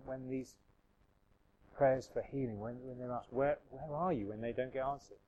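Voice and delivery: soft, halting questions to God; hushed questioning prayer. Acted. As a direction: pray haltingly, searching for the words, softly. Voices honest prayer of people suffering.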